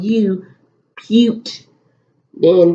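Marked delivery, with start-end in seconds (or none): 0.0-0.4 U said as its letter name, "yoo"; long vowel sound. Shown as a demonstration. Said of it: "it's making its own sound".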